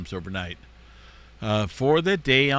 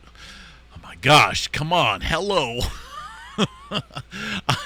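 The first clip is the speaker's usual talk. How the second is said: with hiccups; 6 semitones higher, much slower than usual. Real, not acted. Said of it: "I'm so sorry for the hiccups".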